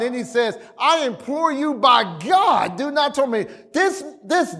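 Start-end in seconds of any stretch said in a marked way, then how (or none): 0.8-3.6 hammed-up imploring; beseeching. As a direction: beg as a frightened demon would, lightly acted. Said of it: "this demon is beseeching God".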